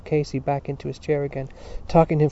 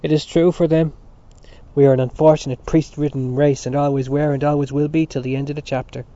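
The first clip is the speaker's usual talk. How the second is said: contemptuous; 7 dB louder than usual. Acted. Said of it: "gave a snort of contempt".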